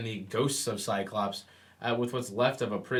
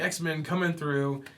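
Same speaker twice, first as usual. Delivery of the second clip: mock yell; 5 semitones higher, slower than usual. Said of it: "with Iceman yelling".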